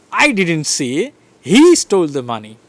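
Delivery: HE lifted and stressed. Shown as a demonstration. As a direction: hit the word he. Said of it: "So I am stressing".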